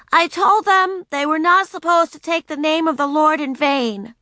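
put-on high, prim little girl voice; proper Sunday school voice. A narrator's reading. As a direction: say it primly, like a good pupil. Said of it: "in her most proper Sunday school voice".

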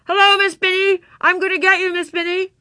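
high, loud playful threat; boisterous little-witch shout; shouting child witch. A narrator's reading. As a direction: holler it to startle the teacher. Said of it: "shouted in her muffled voice".

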